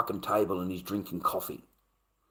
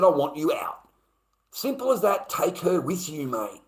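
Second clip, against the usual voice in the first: heated, raised-pitch retold demand; angry; 5 semitones higher, 3 dB louder than usual. Man telling the intruder to take her, angry. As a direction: order him out, voice pitched up. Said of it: "I was so fucking angry".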